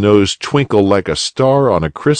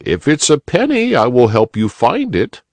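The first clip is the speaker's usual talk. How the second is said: put-on kindly old rabbit; 7 semitones higher than usual. A narrator's reading. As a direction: comfort the little boy. Uncle offers help.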